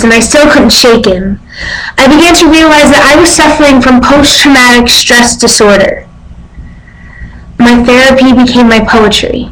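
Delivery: earnest stage monologue, measured pauses between thoughts; dramatic monologue. Acted. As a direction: play a survivor telling her story to an audience. Monologue resumes after long pause.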